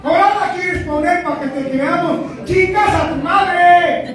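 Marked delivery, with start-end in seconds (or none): 2.4-4.1 drawn-out insult. Acted. Punchline quote shouted slowly.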